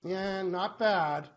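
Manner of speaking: slow flat mock reply. Mocking the usual greeting reply.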